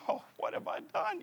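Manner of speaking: mock despair. Runner with cramps, despairing.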